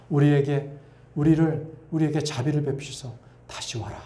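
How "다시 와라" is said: whispered call. Acted. God softly calls back.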